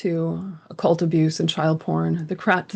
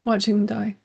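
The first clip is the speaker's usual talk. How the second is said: higher, lightly voiced frightened child; a hint of a scared child; 4 semitones higher than usual. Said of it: "A child's verbiage, you know, she says".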